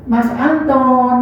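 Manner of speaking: slow, loving "Mas Anton", drawn out gently; tender name call. Shown as a demonstration. To a sweetheart, a slow loving call of "Mas Anton". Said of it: "kan seneng".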